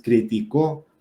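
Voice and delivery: criticó said cri-ti-CÓ; stress on last syllable. Shown as a demonstration. Teacher naming the aguda form, criticó stressed on the final CÓ. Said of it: "es aguda".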